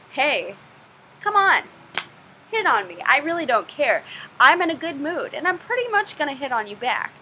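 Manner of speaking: casual, lively come-on with lifted pitch; lightly acted flirty invitation; Rosalind in modern English. Translating the wooing speech into modern English, lightly voiced Rosalind. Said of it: "she's basically saying".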